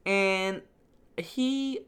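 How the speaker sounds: high, sweet gushing. Real, not acted. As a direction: coo over a cute robot. Gushing about Wall-E.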